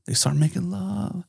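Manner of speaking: very soft, breathy-whispered storytelling; hushed, teasing narration. Real, not acted. Telling friend about lovers kissing, hushed to a whisper. Teller drops voice for love scene.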